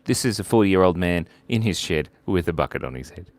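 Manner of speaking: muffled voice inside a bucket; bucket on head. Real, not acted. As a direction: talk with a bucket over your head. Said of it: "Why do you have a bucket on your head?".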